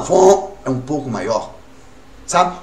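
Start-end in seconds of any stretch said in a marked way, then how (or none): 0.0-0.5 truck horn imitation. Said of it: "buzina de um caminhão".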